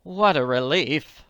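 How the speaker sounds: sighed relief. Acted. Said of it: "Willoughby sighed".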